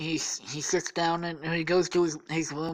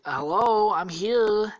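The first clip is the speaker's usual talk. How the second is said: raised, higher voice, as if at a door; retold calling out; 5 semitones higher, 4 dB louder, slower than usual. Friend knocking at the door, acted calling out. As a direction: call to someone inside, lightly acted.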